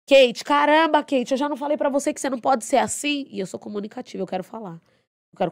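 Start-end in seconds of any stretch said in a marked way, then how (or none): 0.1-3.2 higher, louder exasperated scolding; scolding boss. Retold or imitated. Boss scolding Kate for bonding with patients, exasperated. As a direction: scold her like a fed-up boss. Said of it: "meu chefe falava assim".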